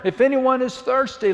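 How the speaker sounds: Jesus calling to the feast crowd, shouting; yelling to a crowd. Acted. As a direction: call it over the crowd. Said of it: "imagine him yelling to that large crowd".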